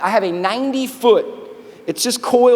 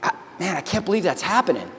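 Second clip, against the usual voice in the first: hushed, soft reaction to awful news; stunned disbelief; 3 semitones lower, 6 dB quieter than usual. Retold or imitated. Soldiers watching the helicopter spiral down, hushed disbelief. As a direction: say it quietly, as if it hasn't sunk in. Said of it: "awful news, and we're all saying the same thing".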